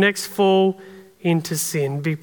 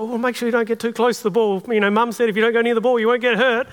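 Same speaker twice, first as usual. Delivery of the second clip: cautious inner voice; faster than usual. Retold or imitated. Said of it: "this other voice who's a bit more cautious".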